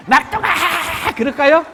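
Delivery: high, loud, slow laughing call; calling the youngest. Pretend. Preacher leading the crowd to call the youngest child, a long loud laughing call. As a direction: stretch out the name, calling the youngest. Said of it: "한번 불러봐요. 시작".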